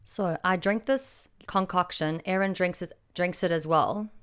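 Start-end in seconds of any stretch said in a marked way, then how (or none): 2.2-4.1 stumbling over the words; excited stutter, words tripping. Real, not acted. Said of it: "Sorry, I'm stuttering".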